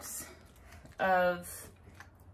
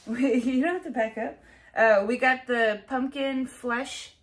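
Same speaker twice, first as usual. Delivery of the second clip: witch voice; 5 semitones higher, 10 dB louder than usual. Acted. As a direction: ham up a kitchen witch. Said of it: "You sound like a witch".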